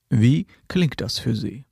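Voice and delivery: slow, drawn-out canned question; a hint of a slick salesman; mock salesman. Salesman asks the customer at the end of the pitch, slow mock. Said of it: "am Ende fragt er".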